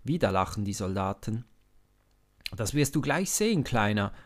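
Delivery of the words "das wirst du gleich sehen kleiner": loud, quick soldier's taunt; mocking call. A narrator's reading. Soldier taunting young David, loud and fast. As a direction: jeer it at the boy, fast and loud. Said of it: "ruft einer von ihnen".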